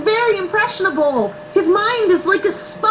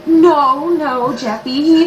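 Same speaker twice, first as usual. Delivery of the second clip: slow, lowered, soothing no; gentle correcting; 4 semitones lower, much slower than usual. Acted. Mother soothing her upset son, gentle. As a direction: correct the child tenderly.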